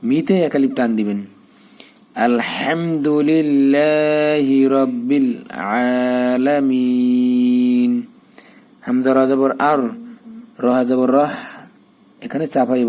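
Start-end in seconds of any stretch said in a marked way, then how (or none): 2.3-7.9 slow melodic tajweed chant, long held vowels; Quran recitation. Shown as a demonstration. Teacher reciting the joined Fatiha words for students, slow and chanted. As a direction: recite it slowly, drawing each vowel out in a tune.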